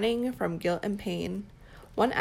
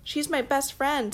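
excited introduction; 6 semitones higher, 5 dB louder than usual. Acted. Simba introducing his friend.

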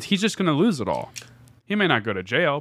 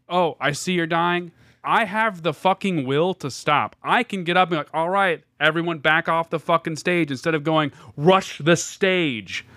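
mocking a rapper; 4 semitones higher than usual. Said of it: "you pretend to die while I'm doing the podcast".

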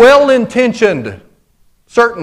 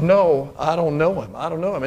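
hushed denial; 4 semitones lower, 7 dB quieter than usual. Retold or imitated. Peter denies again.

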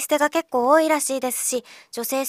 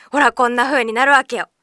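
Okinawan intonation slip; 6 dB louder than usual. Shown as a demonstration. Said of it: "その平屋アーチにつられて".

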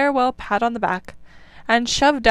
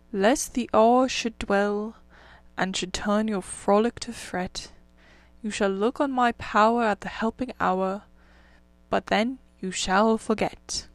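reciting a poem. A narrator's reading. Rat recites the reed song.

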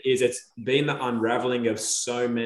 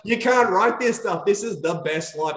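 much higher, laughing in disbelief; amazed excitement; 8 semitones higher, 4 dB louder than usual. Retold or imitated. Retelling his wonder at other lands, laughing excitedly. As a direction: marvel out loud, half laughing.

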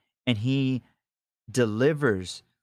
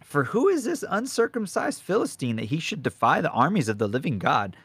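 indignant; 6 semitones higher than usual. Retold or imitated. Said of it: "And then he goes".

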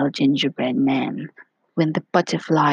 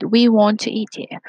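shouting; 4 semitones higher, 4 dB louder than usual. Acted. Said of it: "they shouted".

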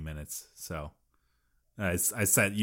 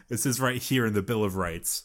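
mock proclamation. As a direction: declare it like law, playfully. Mock outrage joke about ketchup.

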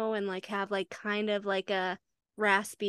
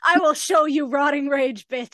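louder, higher mock-angry comeback; mock threat; 4 semitones higher, 6 dB louder than usual. Host snaps back at a book character, mock threat. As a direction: fire back with playful menace. Acted retort to the character's monologue.

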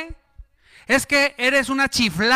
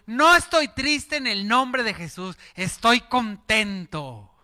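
slow declaration; slower than usual. Retold or imitated. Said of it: "Y tú".

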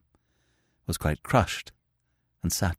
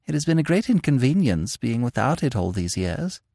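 lightly voiced, composed old governess; a mild hint of a prim governess; calm governess; 6 semitones higher than usual. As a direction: inspect the bag calmly, a little fond. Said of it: "spoke calmly".

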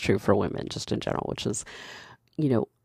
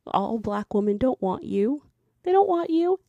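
rising emphatic; 11 semitones higher than usual. Real, not acted. Emphatic rejection building.

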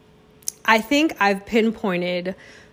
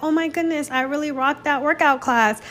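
proud post-workout thrill; 6 semitones higher than usual. Retold or imitated. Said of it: "when I'm like".

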